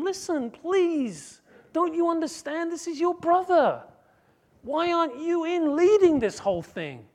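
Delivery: put-on father begging the older son. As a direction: plead with him, please listen. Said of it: "He's like, like begging him".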